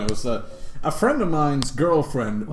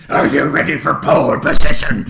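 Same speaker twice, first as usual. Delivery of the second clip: loud, higher imitation of a scream; mock villain yell; 5 semitones higher, 11 dB louder than usual. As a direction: echo the war cry, hammed-up. Echoing the screamed villain line.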